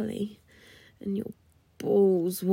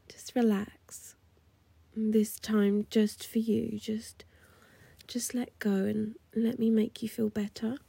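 seductive whisper; 2 semitones higher than usual. Acted. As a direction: coax him to relax, all breath.

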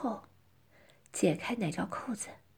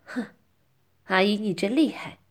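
ashamed; 6 dB louder than usual. Acted. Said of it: "惭愧地说".

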